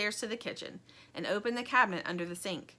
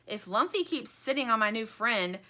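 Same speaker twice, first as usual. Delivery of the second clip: agitated Sheep; 3 semitones higher, 4 dB louder than usual. Acted. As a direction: object with mild agitation.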